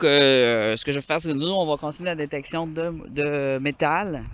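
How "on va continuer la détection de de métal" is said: freezing, dragging out métal; gasping in icy wind. Real, not acted. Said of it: "j'ai de la misère à parler".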